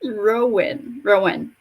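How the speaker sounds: "Rowan" said like ROH-win; "Rowan", falling onto a weak last syllable; preferred pronunciation. Shown as a demonstration. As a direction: try out "Rowan" with a short second vowel. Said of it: "I wanna say Rowan".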